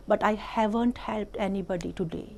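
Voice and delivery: slow, deliberate read-aloud voice; story reading. A narrator's reading. Teacher reading an English story to the class, slow and clear. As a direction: read it out slowly for small children.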